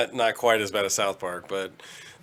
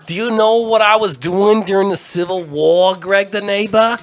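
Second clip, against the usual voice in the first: put-on old Jewish character voice; 9 semitones higher, 7 dB louder than usual. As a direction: play a loud old man reminiscing. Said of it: "That was Jewish, Jewish Theater".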